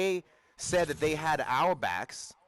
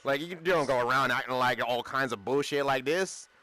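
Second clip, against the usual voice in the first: loud, bro-heavy street talk; own slangy version; 3 dB louder than usual. Pretend. Showing how the speaker would have objected, brash slangy protest. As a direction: contrast it with a rougher, casual outburst of your own. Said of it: "whereas I would have been like".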